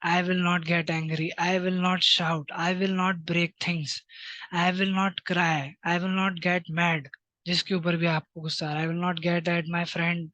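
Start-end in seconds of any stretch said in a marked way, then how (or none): 0.1-7.1 slow, deliberate self-talk, word by word; slow affirmation. Shown as a demonstration. Teacher modelling I-statements for children, slow and deliberate. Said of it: "I statement में आपको स- यही चीजें अपने आप को बोलनी है". 8.9-10.3 slow, deliberate self-talk, word by word; slow affirmation. Shown as a demonstration. Teacher modelling I-statements for children, slow and deliberate. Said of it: "यही चीजें अपने आप को बोलनी है".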